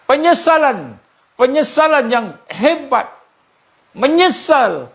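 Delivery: high, intense cry of regret; impassioned warning. Real, not acted. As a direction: stress the horror of regret. Depicting regret in the grave. (amaran penuh emosi)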